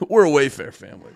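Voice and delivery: "We're a Wayfair family" said fast through a laugh; laughing repeat. Shown as a demonstration. Streamer repeats his own joke to viewers, laughing.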